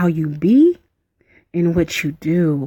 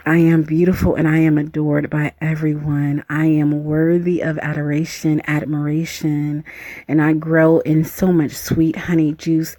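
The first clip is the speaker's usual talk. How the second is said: mantra recitation; 2 semitones lower than usual. Acted. Repeats her mantra.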